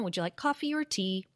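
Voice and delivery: "Would you like coffee or tea?" quick, falling to close it; brisk closed choice, voice dropping on "tea"; falling tune. Shown as a demonstration. Teacher demoing the closed question with a falling tune. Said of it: "the intonation is down".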